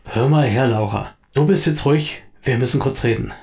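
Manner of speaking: mildly brusque order to settle down; a touch of impatience; firm, understated gruffness; slightly gruff. Acted. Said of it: "sagt Solo etwas unwirsch".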